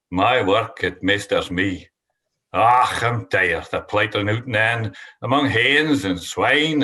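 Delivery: reciting a Scots poem; slow, measured poetry reading; poem recital. Acted.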